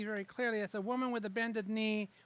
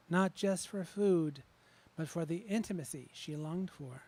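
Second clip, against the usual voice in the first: poem reading. Acted. Reads her poem Hunger.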